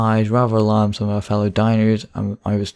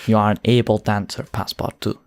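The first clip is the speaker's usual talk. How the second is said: put-on Russian accent. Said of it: "I'm all right at a Russian accent".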